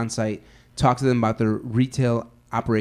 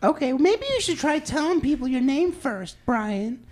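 high-pitched annoyed woman; 13 semitones higher, slower than usual. Pretend. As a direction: snap back as an irritated woman. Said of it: "I'm a woman".

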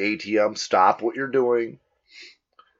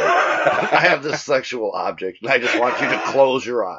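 creepy seducer; 3 semitones higher, 5 dB louder than usual. Acted.

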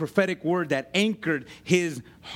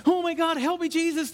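mock panic; 11 semitones higher than usual. Preacher imitating a panicked man bitten by a snake, mock high-pitched cry. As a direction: ham up a frantic plea to Jesus. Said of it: "He's like".

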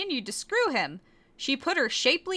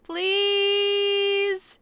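rising pleading whine, the last word long and high; beg, stretching the final please way up; whimper; 5 semitones higher than usual. Acted. Korra begging Sesshomaru, hammed-up pleading whine. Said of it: "she whimpered".

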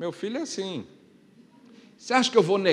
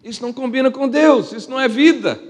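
higher and louder, ringing out; preaching loud; 8 semitones higher, 8 dB louder than usual. Acted. Pastor declaring to the church what fits God, loud and high. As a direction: hit it hard to the back row. Repeated line, quiet then loud.

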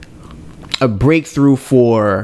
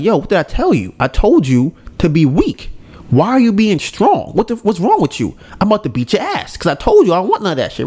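higher-pitched mock telling-off; retold mad scolding; 6 semitones higher than usual. Reaper scolding the kid for being strong, retold as getting mad. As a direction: imitate someone fed up and scolding. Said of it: "He's getting mad at the kid".

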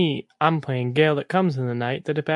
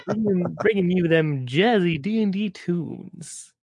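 radio DJ voice. Pretend. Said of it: "talk in my radio voice".

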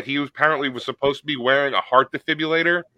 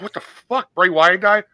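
shocked disbelief; 4 semitones higher than usual. Retold or imitated. Podcaster reliving the moment he heard of the death, shocked. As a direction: pitch jumps high on the first words, then a stunned question. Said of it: "you shock it. You're like".

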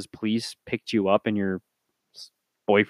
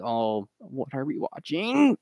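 mock dismay; 3 semitones higher, 4 dB quieter, slower than usual.

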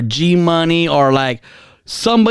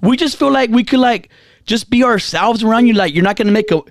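imitating the girls; 3 semitones higher than usual. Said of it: "this is what they're saying".

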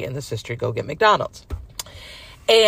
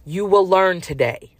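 stern warning; 4 semitones higher, slower than usual. Retold or imitated. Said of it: "my spirit is like".

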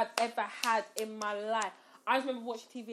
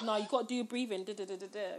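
put-on American accent; 2 semitones lower, 4 dB quieter, faster than usual. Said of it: "with his American accent".

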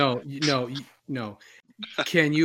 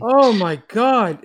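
high, loud, slow exclamation; shocked; 9 semitones higher, 8 dB louder, slower than usual. Real, not acted. Friend reacting to the swearing gamer, loud shocked exclamation. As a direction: gasp it out in disbelief. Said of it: "reacting to the gamer".

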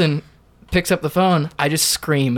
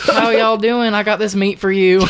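thick Southern accent; 6 semitones higher than usual. Shown as a demonstration. Waiter entertaining himself at tables, thick Southern accent. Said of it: "a really thick Southern accent when I'm talking to tables".

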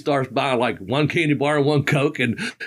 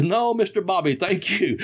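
higher, lightly imitated driver's refusal; Sheldon the limo driver; 5 semitones higher than usual. Limo driver declining Bobby's offer, lightly imitated. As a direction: gently mimic a courteous no-thanks, pitched up. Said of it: "But it's".

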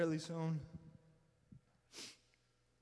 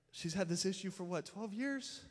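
urgent pleading father; 3 semitones higher, 5 dB louder than usual. Retold or imitated. Jairus pleading with Jesus.

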